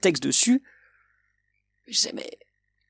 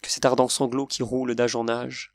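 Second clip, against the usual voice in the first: poem recital; 3 semitones lower than usual. Acted. Reciting his favourite Baudelaire verses to viewers, solemn recital. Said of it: "des vers que j'aime beaucoup dans Les Phares".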